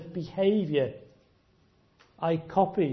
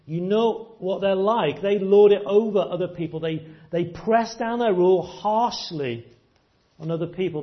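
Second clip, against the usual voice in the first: emphatic preaching; 4 semitones higher, 5 dB louder than usual. Acted. Preacher hammering home the point.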